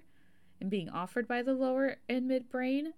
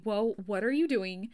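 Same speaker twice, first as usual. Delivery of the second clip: panicked lower brain; 2 semitones higher, 5 dB louder than usual. Retold or imitated. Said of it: "are screaming at me".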